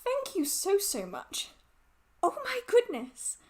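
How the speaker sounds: high, gushing thank-you that slips into a gasp; overwhelmed thanks. Real, not acted. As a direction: thank them breathlessly, near tears. Thanking for a big donation.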